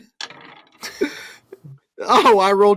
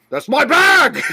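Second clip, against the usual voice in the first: louder, higher indignant yell; devil's outraged yell; 5 semitones higher, 4 dB louder than usual. Acted. Devil yelling after the coyotes who took his bag. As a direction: shout it like your prize was just stolen. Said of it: "You see the devil's like".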